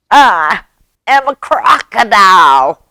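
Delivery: high, loud grand announcement; boasting mouse. Acted. Mouse's triumphant new boast in story.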